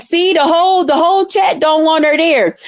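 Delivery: mock their fake majority; mocking haters.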